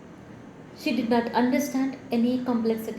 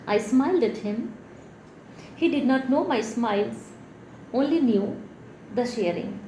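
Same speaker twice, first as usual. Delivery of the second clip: measured poetry reading, phrase by phrase; deliberate poetic cadence; poem recital; 2 semitones higher than usual. Acted. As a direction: recite it with lilting line ends and pauses. Reads own poem aloud.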